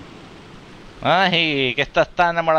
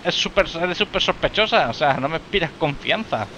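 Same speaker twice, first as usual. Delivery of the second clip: indignant retort; 4 semitones higher than usual. Real, not acted. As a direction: argue back at the screen, fast. Arguing with game character.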